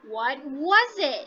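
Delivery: slow question, pitch swelling up on "was"; rising question. Shown as a demonstration. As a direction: draw out and lift "was it". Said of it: "use your rising intonation".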